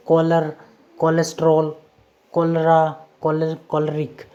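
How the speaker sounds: कॉलर, कोलेस्ट्रॉल, कोलरा, कोलरिक each begun with a hard k. Shown as a demonstration. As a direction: read कॉलर to कोलरिक as separate words starting on k. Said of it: "सीएच का उच्चारण होगा क". (कॉलर से कोलरिक तक हर शब्द क से, अलग-अलग)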